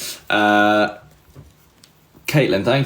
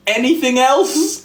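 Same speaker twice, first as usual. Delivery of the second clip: high, slow, drawn-out awkward question; awkward retold question; 14 semitones higher than usual. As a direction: imitate yourself awkwardly prompting a stranger. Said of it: "I felt really bad for saying".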